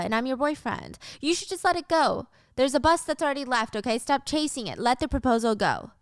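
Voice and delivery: fake-sweet teasing; mock sweet couple. Couple voiced in recap.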